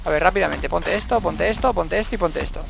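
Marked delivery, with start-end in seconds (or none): none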